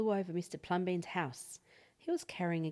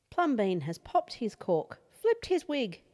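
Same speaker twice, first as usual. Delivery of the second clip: the whole street fed up, venting; exasperated neighbours; 2 semitones higher, 5 dB louder than usual. Acted. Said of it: "They went away muttering".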